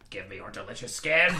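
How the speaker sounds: hungry creature. Acted. Monster craving Philippe's delicious skin, low savouring creep. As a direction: relish each word like a monster.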